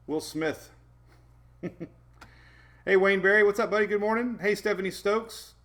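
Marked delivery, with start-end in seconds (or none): 2.9-5.5 excited. Real, not acted. Excited greeting to viewer.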